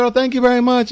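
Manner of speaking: pleased thanks. Retold or imitated. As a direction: gush a surprised thank you. His own retold reply.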